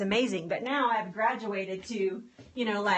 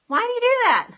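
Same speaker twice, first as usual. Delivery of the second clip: much higher and louder, exasperated; exasperated outburst; 12 semitones higher, 7 dB louder, faster than usual. Real, not acted. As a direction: throw the question at them in disbelief. Exasperated question to viewers.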